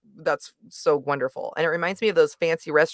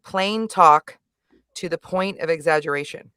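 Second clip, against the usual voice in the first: "Plain talk" louder and deliberate, then back to level; exaggerated plain talk; 4 dB louder than usual. Shown as a demonstration. Host demonstrating how the comedian delivers his lines, exaggerated plain talk. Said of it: "just think about the way I said that".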